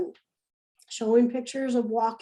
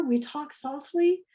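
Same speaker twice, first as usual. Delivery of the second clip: soft spoken; 3 semitones higher than usual. Shown as a demonstration. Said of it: "lower their voice and talk softly".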